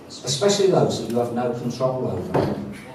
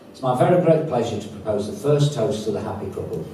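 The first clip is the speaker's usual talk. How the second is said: raise-your-glasses toast voice; formal toast; 3 dB louder than usual. Acted. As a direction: announce the toast to the room. Proposes the toast.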